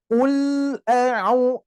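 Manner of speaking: "Ul" with a short, flowing l; flowing lam. Shown as a demonstration. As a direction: let the l in "Ul" flow a little. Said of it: "dialirkan dulu".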